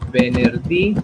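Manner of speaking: "Venerdì" loud, lifting the last DÌ; stress on final syllable. Shown as a demonstration. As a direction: model "Venerdì" clearly, weight on the accented DÌ. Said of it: "la fuerza, ¿no? de voz".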